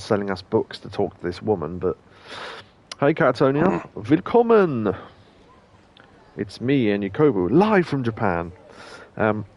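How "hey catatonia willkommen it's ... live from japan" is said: mock host.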